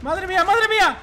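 high, loud astonished cry; amazed exclamation. Real, not acted. Gamer stunned by a play, high loud cry. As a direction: let the disbelief burst out high.

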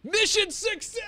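high, loud triumphant cheer; excited shout. Real, not acted. Celebrating escape in game.

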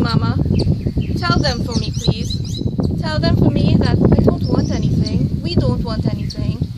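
loud, pressing plea passed on from the dead woman; urgent spirit plea. Retold or imitated. Dead lady begs Mama to tell her family, loud plea. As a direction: push it out as if begging for her family. Soul pleads through the medium.

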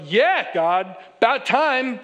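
Moses grumbling that it's about time; preacher playing Moses as cheeky and impatient; sassy impatience. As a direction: needle God like an impatient shepherd. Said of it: "he's thinking to himself".

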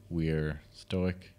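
slow, solemn stoic delivery. Shown as a demonstration. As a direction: say it slowly, stone-faced. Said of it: "I think I've done that one before".

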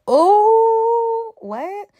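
scandalized squeal; shocked. Real, not acted. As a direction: gasp it out in disbelief. Reacting to coffee candle.

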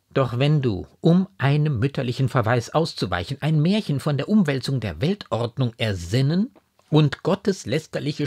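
earnest warning, pressed home; stern, hurt mother. A narrator's reading. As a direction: admonish your daughter with wounded severity.

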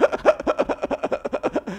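high, goofy mock redneck laugh; redneck guffaw. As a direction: chuckle in rapid bursts like a cartoon yokel. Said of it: "I put on my best redneck voice".

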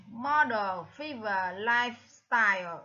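Model, fever, lifestyle, each stressed at the start; first-syllable stress. Shown as a demonstration. Teacher lists matching words, Model, fever, lifestyle stressed on the first syllable. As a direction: lean on MO, FE and LIFE. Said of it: "là âm thứ nhất".

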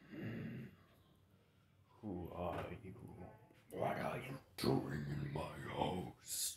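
deep, slow, raspy fox growl; whispery giant-beast rumble, low and drawn out; Kurama voice. Acted. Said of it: "trying my best English Kurama voice".

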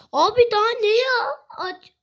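high, crying whine of frustration; real exasperated whimper; frustrated whine. Real, not acted. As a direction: whimper it out, fed up. Frustrated at game not working.

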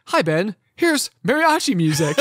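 chirpy device greeting, laughing; bright smart-speaker voice with a laugh; cheery assistant. Retold or imitated. He mimics his Alexa, cheery and laughing. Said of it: "it will be like".

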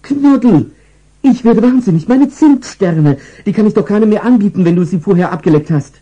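very high, loud, frantic scream; shrieking owner. Acted. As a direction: shriek at the dog in despair. Frauchen shrieks at dog.

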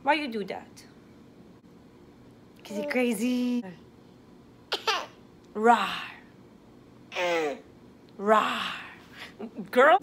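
put-on playful growls at the baby; bouncy baby play, rah noises; bouncy playful with animal noises. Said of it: "playing with baby, animal noises".

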